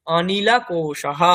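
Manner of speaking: অনিলা কোষাহ slow with a breathy -ah; Sanskrit visarga. Shown as a demonstration. Teacher giving the word for gas cylinder, slow. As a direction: stretch it, end on a breath. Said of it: "next, gas cylinder".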